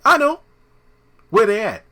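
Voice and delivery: squeaky high and loud; high, loud comic squeal; high mock eagerness. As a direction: pitch it up in giddy surprise. Acted Regina scene.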